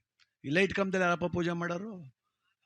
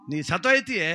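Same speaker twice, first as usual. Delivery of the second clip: louder, insistent repeat of the warning; pressed warning; 4 dB louder than usual. Acted. Dasappa insists loudly that the widow will die. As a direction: drive the threat home.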